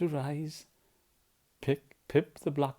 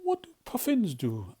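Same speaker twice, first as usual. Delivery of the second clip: higher, curious little bird; chirpy small Pip asking; 8 semitones higher than usual. Acted. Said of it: "asked Pip".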